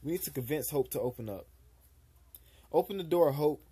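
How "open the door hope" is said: loud, pushy call through the door; yelling. Acted. Julian yelling at Hope through her door, loud. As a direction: demand she open up, loudly. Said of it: "So you can just yell at me more?".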